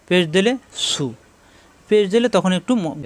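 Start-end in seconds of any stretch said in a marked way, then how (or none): 0.9-1.1 "সু" with lips a little rounded; slightly rounded lips. Shown as a demonstration. Teacher shows pupils the pesh vowel, slightly rounded. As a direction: round gently into the oo of "সু". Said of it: "তখন একটু গোল হয় মুখটা".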